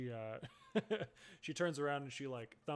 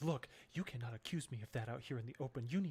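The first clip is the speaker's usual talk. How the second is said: terrified, frightened, scared voice. In a scene about witches, a woman answers the one insisting there are none, terrified. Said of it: "terrified at this point".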